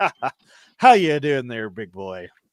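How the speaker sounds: loud, chuckling, laughing through the words. Narrator voices a character who looks up at Vorgmark, laughing while speaking. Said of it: "he kind of laughs".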